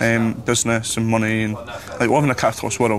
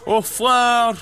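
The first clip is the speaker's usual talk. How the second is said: Scottish accent; 10 semitones higher, slower than usual. Shown as a demonstration. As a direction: show "Oh, flower" in a strong Scottish accent. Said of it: "But can you say, like".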